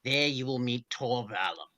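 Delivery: low, slow sinister emperor; Palpatine hologram. Acted. The Emperor's recording speaks to Vader, low and sinister.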